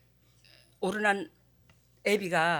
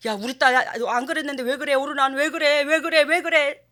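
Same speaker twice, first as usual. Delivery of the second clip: bewildered dad; 4 semitones higher, 5 dB louder than usual. Retold or imitated. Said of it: "father puzzled by crying daughter".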